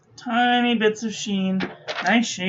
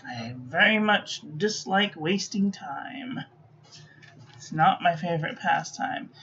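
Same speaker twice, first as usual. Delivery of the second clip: whispering; 2 semitones lower, 5 dB quieter than usual. Real, not acted. Aside muttered under her breath.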